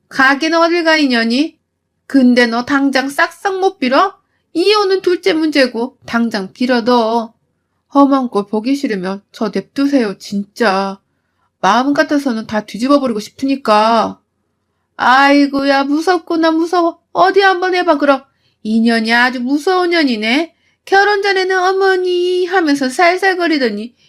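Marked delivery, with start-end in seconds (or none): 0.1-7.3 붙잡으며 다그치는 시어머니 흉내; 날 선 명령조. Retold or imitated. 시어머니가 잡더라고요. 14.9-20.5 높은 목소리로 빈정대는 시어머니 흉내; 비웃듯 조롱하는 말투; 비아냥거림. Retold or imitated. 시어머니 비아냥 재연. 20.8-23.9 높고 간드러지게 며느리 흉내; 비꼬며 살살거리는 말투. Retold or imitated.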